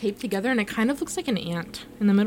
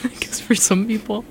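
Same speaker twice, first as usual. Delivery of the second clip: mocking imitation. Mocking friend's words.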